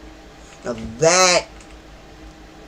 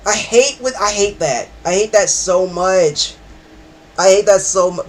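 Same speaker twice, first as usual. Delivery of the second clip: rattled by a scare; 3 semitones higher, 3 dB louder than usual. Real, not acted. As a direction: protest just after a jump scare. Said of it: "'Cause ooh, this scared me".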